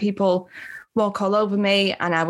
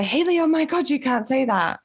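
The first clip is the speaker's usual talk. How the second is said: mock shocked scolding; 5 semitones higher than usual. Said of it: "slap my arm and say".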